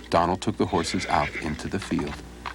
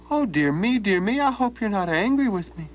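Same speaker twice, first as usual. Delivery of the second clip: mock concern; 13 semitones higher than usual. Donald mock apologizing.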